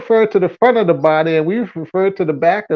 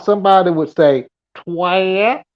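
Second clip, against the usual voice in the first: twat stretched toward twight, Southern style; a Southern drawled twat. Shown as a demonstration. Explaining to Smokey, a Southern twat. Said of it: "in the South".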